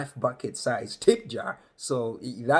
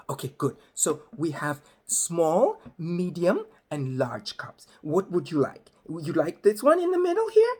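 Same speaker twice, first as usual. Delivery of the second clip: over-explaining lady; 5 semitones higher, 3 dB louder than usual. Retold or imitated. Counter lady over-explaining sizes.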